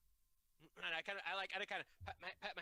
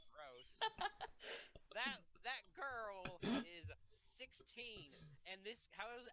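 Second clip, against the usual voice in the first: put-on southern accent; 3 semitones higher, slower than usual. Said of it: "everyone have a southern accent".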